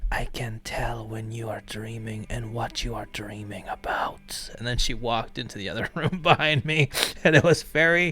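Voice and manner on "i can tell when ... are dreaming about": put-on breathy whispered Eastern European accent. Retelling what a woman whispered into the speaker's ear, in a whispered eastern european accent. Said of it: "whispered into my ear in in her Eastern European accent".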